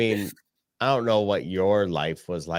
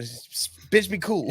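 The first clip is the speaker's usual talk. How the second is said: panicky squeal; 11 semitones higher than usual. Retold or imitated. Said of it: "this chick starts running".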